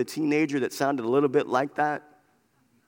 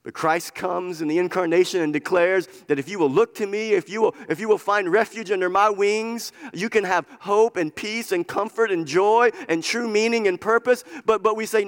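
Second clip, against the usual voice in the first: raised, flowing pulpit proclamation; fervent preaching; 4 semitones higher, 4 dB louder than usual. Real, not acted. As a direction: proclaim the promise with building energy. Preaches with force.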